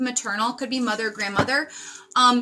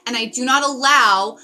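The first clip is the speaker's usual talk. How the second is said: louder, forceful outburst; getting loud; 5 dB louder than usual. Real, not acted. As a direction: raise the voice and push it out. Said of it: "wow, I'm getting very loud".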